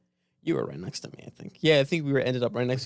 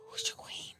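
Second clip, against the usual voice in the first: high baffled quote; 15 dB quieter than usual. Retold or imitated. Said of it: "I was like, it's like".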